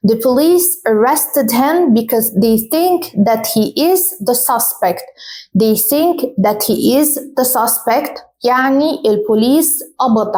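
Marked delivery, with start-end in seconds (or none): 0.1-8.2 slow, the SUSpect stressed first; slow teacher reading; slow model sentence. Shown as a demonstration. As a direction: dictate it slowly. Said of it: "For example".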